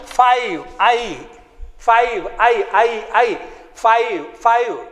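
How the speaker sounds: five with a long eye sound, repeated. Shown as a demonstration. Teacher drilling five for pupils. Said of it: "I will sound like I".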